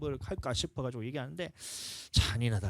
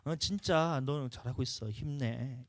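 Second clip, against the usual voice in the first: encouraging words; 4 semitones higher, 5 dB quieter, slower than usual. Shown as a demonstration. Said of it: "이런 말".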